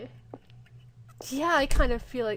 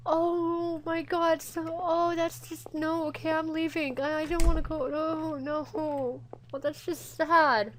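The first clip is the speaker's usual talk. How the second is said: upset; 4 semitones higher, slower than usual. Real, not acted. Upset, wants to leave the scene.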